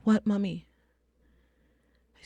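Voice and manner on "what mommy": put-on slightly high-pitched young daughter; mild imitation of an uneasy child; scared child. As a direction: lightly voice a worried little girl. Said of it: "she looks scared".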